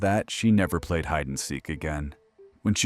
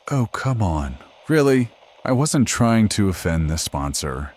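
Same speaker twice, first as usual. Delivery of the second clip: louder, indignant objection; exasperated protest; 3 semitones higher, 5 dB louder than usual. Acted. Host protests to his producers about the sponsor, exasperated. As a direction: push back, as if unfairly scolded.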